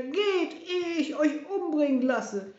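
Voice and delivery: high, loud, overwrought order; distraught tyrant shouting; screamed threat. A narrator's reading. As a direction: drive them out with a shout. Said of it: "schrie er".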